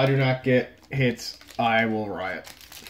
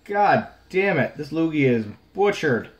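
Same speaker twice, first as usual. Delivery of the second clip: angry cursing; 5 semitones higher, 4 dB louder than usual. Real, not acted. Collector cursing his butchered Lugia, higher and angry. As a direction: spit out the curse at the damaged card. Card ruined while opening pack.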